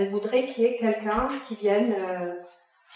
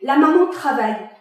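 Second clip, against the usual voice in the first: colère qui monte; 3 semitones higher, 3 dB louder than usual. Acted. Father pleads for son's card.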